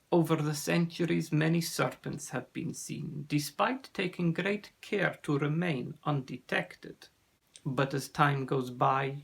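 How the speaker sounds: put-on accented, measured storyteller; grave sea serpent. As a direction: tell the danger gravely, with a lightly voiced foreign accent. Narrator plays Ossian, sea serpent.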